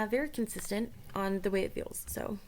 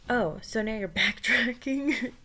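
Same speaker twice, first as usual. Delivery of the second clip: laughing; 4 semitones higher than usual. Acted. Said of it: "so funny to hear it fucking repeat itself".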